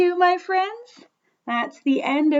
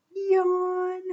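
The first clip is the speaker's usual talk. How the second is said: long, higher-pitched mock yawn; pretend yawn; 4 semitones higher than usual. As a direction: draw out a big sleepy yawn. Acts out the piggy's yawn.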